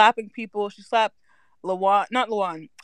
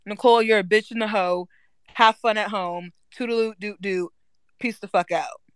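sassy farewell. Pretend. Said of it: "my speech would be".

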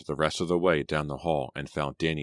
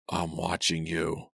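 hoarse whisper; slower than usual. Acted. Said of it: "the voice whispered hoarsely".

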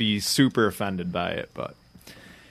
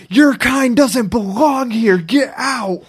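higher, louder, slow hammed-up hostile warning; mock hostile Randy; 12 semitones higher, 6 dB louder, slower than usual. Randy telling the newcomers to leave, hammed-up and hostile. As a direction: shoo the strangers off in mock outrage. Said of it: "he's just like".

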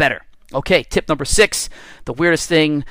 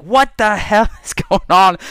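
startled wife; 6 semitones higher, 3 dB louder, slower than usual. Retold or imitated. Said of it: "She's like".

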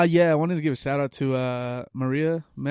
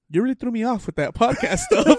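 cop quoted while laughing; 8 semitones higher than usual. Retold or imitated. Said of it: "and he goes".

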